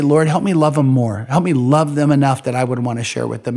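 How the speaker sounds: a touch of heartfelt prayer voice; modelled prayer. Acted. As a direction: pray it out as an example for them. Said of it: "maybe you ought to say".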